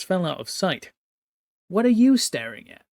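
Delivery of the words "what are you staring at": sharp higher yell at the angel. Acted. Commander yelling at an idle dark angel, sharp loud yell. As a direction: bark the question up high and loud. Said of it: "Chainer yelled".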